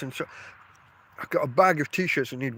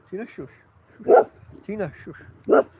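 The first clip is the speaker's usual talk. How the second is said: firm shush; 4 semitones higher, 5 dB louder, slower than usual. Real, not acted. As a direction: say it slowly and firmly, like ordering a pet to settle. Telling Tina to be quiet.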